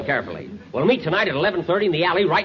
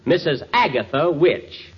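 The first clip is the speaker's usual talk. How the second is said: slow show announcer intro; radio announcer; 2 semitones lower than usual. A narrator's reading. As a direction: set the scene like a host.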